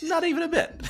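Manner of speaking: squeaky laughing tease. Real, not acted. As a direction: laugh through the words. Teasing Katie for no accent.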